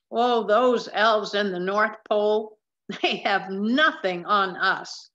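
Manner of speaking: light laughing quip to coworkers; laughing tease. Acted. Seamstress teasing her coworkers, laughing lightly. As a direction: chuckle through the joke. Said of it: "Missus Parks would laugh each year".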